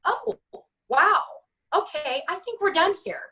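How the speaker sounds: high, light mock disbelief before a curt dismissal; hint of shocked disbelief rising high; stunned, then done. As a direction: lightly play shocked, then close the door. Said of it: "And I just went".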